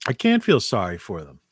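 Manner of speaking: talking around an ice cube; ice in mouth. Real, not acted. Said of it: "Got an ice cube in my mouth".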